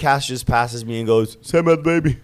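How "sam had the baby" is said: high, loud mock call; acted-out excited announcement in passing; imitated excited call. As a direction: imitate shouting happy news mid-race. Acts friend calling news mid-race.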